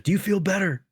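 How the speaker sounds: smug repeated jab; cocky taunt. Retold or imitated. Salesman needling the angry homeowner, smug jab. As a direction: ask it again with a smirk.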